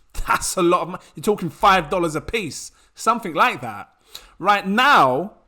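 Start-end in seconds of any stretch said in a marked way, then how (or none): 4.4-5.3 loud, outright shouting. Telling the listener how cheap the tokens are now, shouting. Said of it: "I'm shouting".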